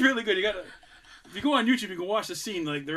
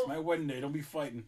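put-on mild Irish English accent. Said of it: "Irish English accent".

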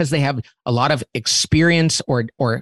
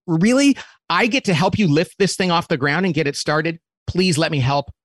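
eager excitement; 2 semitones higher than usual. Retold or imitated. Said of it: "Oh, and they're excited".

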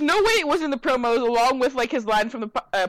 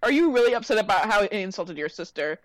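incredulous retort. Retold or imitated. Viewer scolding a character, incredulous and squeaky. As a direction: scoff at him in disbelief. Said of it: "I'm like".

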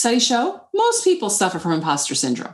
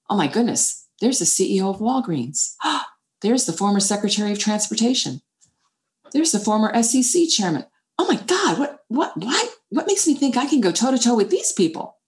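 retold inner panic. Panicking at first board meeting.

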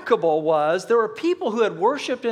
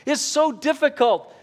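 desperate prayer; 5 semitones higher, 3 dB louder than usual. Pretend. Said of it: "you're going".

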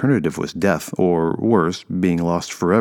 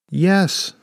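high, raised-voice call; 13 semitones higher, 4 dB louder than usual. A narrator's reading. Mother answering the dragon, calling out high. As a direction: call up to something enormous. Woman calls out to giant dragon.

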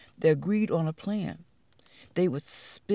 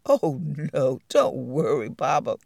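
reassuring; 5 semitones lower than usual. Acted. Spiders reassure frightened elephant.

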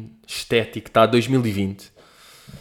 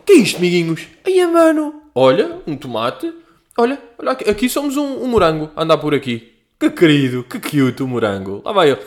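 hyped streamer commentary; 5 semitones higher, 5 dB louder than usual. Retold or imitated. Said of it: "mas depois tá tipo".

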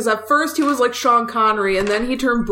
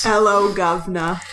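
mock Cockney; 3 semitones lower than usual. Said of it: "Michael Caine voice".

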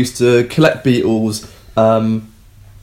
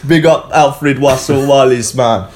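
slow, louder mock Jamaican shout-out; Jamaican accent; 3 semitones higher, 4 dB louder, slower than usual. Co-host urges him on, hamming up Jamaican accent. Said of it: "Just roll with it".

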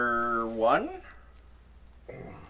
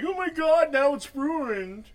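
high, loud mock panic; panicked past self; 14 semitones higher, 5 dB louder, slower than usual. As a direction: squeal it like a frantic worrier. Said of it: "I would have been like".

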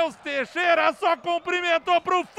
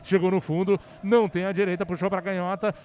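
building excitement; 6 semitones lower, faster than usual. Real, not acted. Attack builds to goal.

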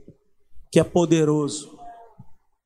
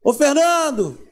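calling out; 7 semitones higher, 3 dB louder, slower than usual. Retold or imitated. God calling a person.

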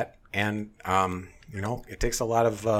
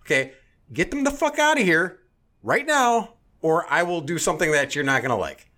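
much higher, louder furious shout at the staff; imagined loud shouting at the manager; angry demand; 11 semitones higher, 5 dB louder than usual. Retold or imitated. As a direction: storm up and yell for the manager. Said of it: "I'll go".

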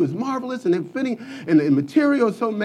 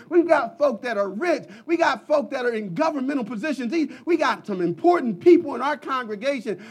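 mocking boast; 4 semitones higher than usual. Mocking the boastful Laodicean church.

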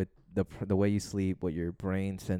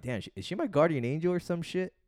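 higher, louder mock amazement; surprised realization; 9 semitones higher, 4 dB louder than usual. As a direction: retell the shock with a lifted, louder voice. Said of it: "I took it like".

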